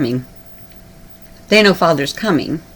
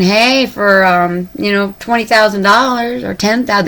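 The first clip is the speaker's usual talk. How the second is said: lightly voiced salesman, higher pitch; ticket seller's pitch; 4 semitones higher, 3 dB louder than usual. Ship sellers offering humans tickets, mock sales pitch. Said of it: "and they're saying".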